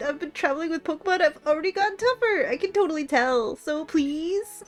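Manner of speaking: a hint of valley girl, pleading. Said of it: "I gave you the Valley Girl voice".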